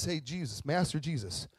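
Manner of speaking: plain, earnest call; sincere appeal. Acted. Lepers asking Jesus to truly see them, sincere. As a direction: ask simply, with no whining. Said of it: "In this sense, pity is".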